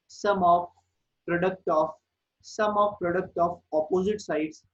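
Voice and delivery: very slow, phrase by phrase with long pauses; slow dictation. Real, not acted. Teacher dictating a theorem to students, slow and measured. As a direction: dictate it slowly for note-takers.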